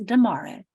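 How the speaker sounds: "tomorrow" said as duh-morrow; D-sound pronunciation. Shown as a demonstration. Teacher explaining quick speech, D-for-T pronunciation. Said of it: "becomes D".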